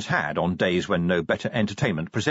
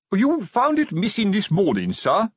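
pompous sergeant voice; 10 semitones higher, 3 dB louder than usual. Acted. Colon voiced in read story.

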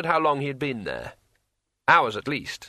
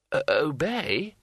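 trembling with terror; 4 semitones higher, slower than usual. Acted. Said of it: "his voice vibrating with terror and delight".

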